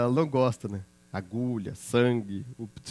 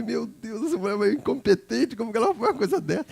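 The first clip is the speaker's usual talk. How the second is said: exasperated outrage; 7 semitones higher than usual. Retold or imitated.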